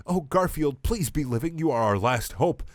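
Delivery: mournful plea. Acted. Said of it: "with mournful tears".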